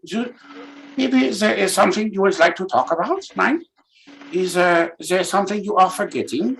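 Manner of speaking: a hint of a foreign therapist at a counseling session; mock counselor. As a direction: coax out a trauma, mock-gently. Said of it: "we're doing a counseling session".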